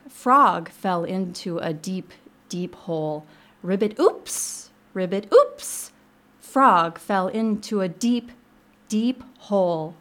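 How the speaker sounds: slow, measured storybook narration; picture-book read-aloud. A narrator's reading. Librarian reading a frog story on air, slow storytelling. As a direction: read it slowly to young children, savoring each phrase.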